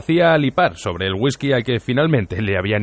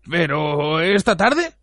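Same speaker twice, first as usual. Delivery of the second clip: very slow, higher, hesitant question; stunned disbelief; 5 semitones higher, much slower than usual. A narrator's reading. Bartender asking if it ends this afternoon, stunned and slow. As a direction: draw it out, hardly believing it.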